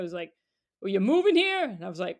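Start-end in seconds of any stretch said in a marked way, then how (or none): 0.8-1.6 loud, higher call from a car window; mock shout to someone on the street. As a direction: imitate a stranger hollering a question. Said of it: "he leans out the window".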